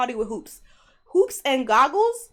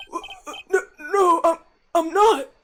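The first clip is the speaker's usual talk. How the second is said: flustered panic; 6 semitones higher, 4 dB louder than usual. Acted. Flustered judge voice.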